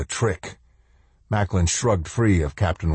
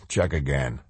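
quiet, forced calm; 4 semitones lower, 4 dB quieter than usual. Acted. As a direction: keep it steady and low. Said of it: "in the calmest voice he could summon".

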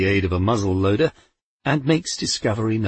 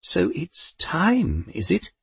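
calm Poldy; 8 semitones higher, slower than usual. A narrator's reading. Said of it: "she said calmly".

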